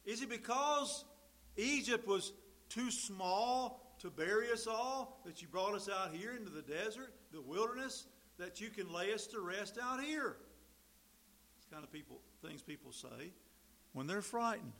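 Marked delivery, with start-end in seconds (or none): 0.0-10.4 raised, louder mocking complaint; biting sarcasm. Preacher voicing the Israelites complaining to Moses, biting sarcasm. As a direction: throw the accusation back with bite. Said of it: "This is that biting sarcasm".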